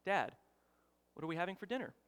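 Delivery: retold calm question to dad; everyday unbothered asking; calm, regular voice. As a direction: ask it evenly and softly, no pressure. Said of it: "in just a calm, regular voice".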